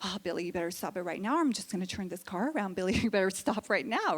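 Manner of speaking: put-on a timid mother begging her kid; meek soccer mom. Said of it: "the mom's just like".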